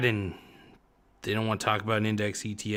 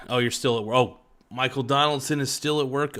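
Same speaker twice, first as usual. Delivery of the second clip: normal talking voice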